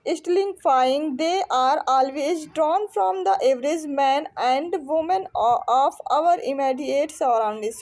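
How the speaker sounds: slow, emphatic question read-out; deliberate classroom reading with breaks between phrases; reading aloud. Acted. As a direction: read the text out slowly, word by word. Reads out exam question.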